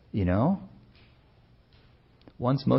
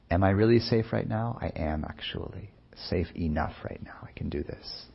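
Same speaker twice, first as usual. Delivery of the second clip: soft inner voice, sinking to a whisper; self-reassurance; 5 dB quieter than usual. Acted. Meditator quietly reassuring himself he is safe, fading to whisper. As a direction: talk yourself quietly into safety.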